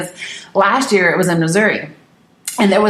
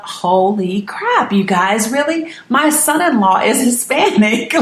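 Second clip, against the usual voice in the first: mock outrage; 4 semitones higher than usual. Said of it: "And I thought".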